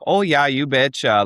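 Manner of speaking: clichéd Fargo accent, played up briefly. Shown as a demonstration. Comedian demonstrating her hometown cliché, Fargo accent. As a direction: do a stock Fargo local's accent. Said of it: "there's that sort of cliched accent".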